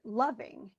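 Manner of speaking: "loving" as LOV-ing, second syllable falling away; "loving" with a strong first beat and weak ending; stress on first syllable. Shown as a demonstration. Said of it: "So the loving part".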